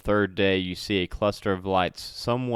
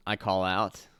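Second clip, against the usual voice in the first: ordinary talk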